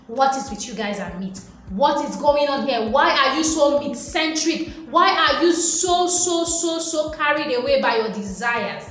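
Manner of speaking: mock scolding the meat-obsessed crowd; exasperated. God scolding the Israelites, exasperated disbelief. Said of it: "it's like".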